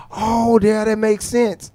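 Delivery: lightly voiced agreeable son; child voice. Son agreeing in retold talk.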